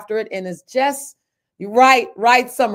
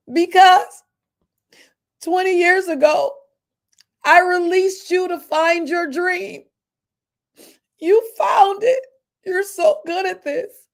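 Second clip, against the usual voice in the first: a touch of a higher, louder voice for the tearful lady; proud old boss choked up, higher; collections lady; 8 semitones higher, 4 dB louder than usual. Retold or imitated. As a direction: voice the lady with rising emotion. Collections lady's tearful words voiced.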